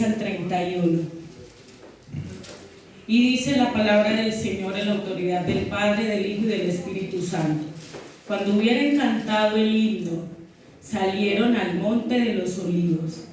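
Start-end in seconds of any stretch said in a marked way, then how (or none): 3.1-13.2 scripture reading. Acted. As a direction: read the passage solemnly to the church. Reads scripture aloud to congregation. (lectura bíblica pausada y solemne)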